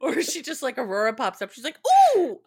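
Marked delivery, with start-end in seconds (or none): 2.2-2.4 high, loud mock delight; Robin. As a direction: gush an exaggerated, squealing welcome. Acting out Robin's delighted greeting.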